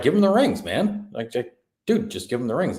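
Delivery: hammed-up exasperated plea; a lightly voiced pushy Galadriel; mock Galadriel. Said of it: "And she's like".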